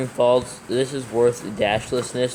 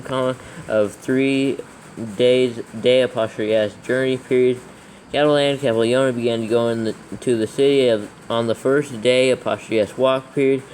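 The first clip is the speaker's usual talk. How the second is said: dictating. Acted. Dictating verse with punctuation.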